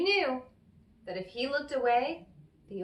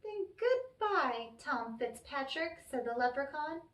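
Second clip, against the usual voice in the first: leprechaun farewell; 6 semitones higher than usual. Acted.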